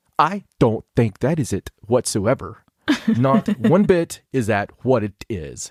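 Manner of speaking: angry, over-enunciated, every word spelled out. Acting out how Stacy talks when she gets mad at you, do it imitating Stacy really pissed, enunciating. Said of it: "gets really pissed at me ... when the enunciation starts".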